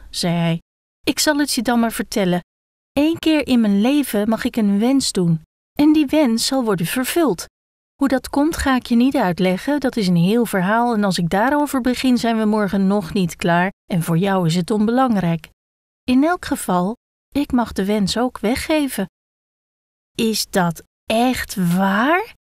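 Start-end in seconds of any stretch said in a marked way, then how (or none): 1.0-19.1 a small creature sharing a secret; a hint of a shy gekko confiding; gekko explaining. 20.2-22.3 surprised call. Acted. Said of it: "riep het hoofd".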